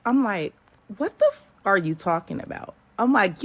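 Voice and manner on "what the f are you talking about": indignant. Retold or imitated. Angry reply on the phone.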